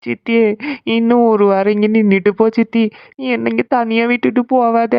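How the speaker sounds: tearful, mildly whiny pleading; crying. Acted. Niece begging her aunt to stay, crying. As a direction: plead through hammed-up sobs. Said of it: "ஏன்க்கா அழுதுட்டு இருக்கீங்க".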